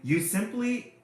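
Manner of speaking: high, loud sea-creature cry, the last words slow; hammed-up booming scold; mock bellow. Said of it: "the sea creature bellowed".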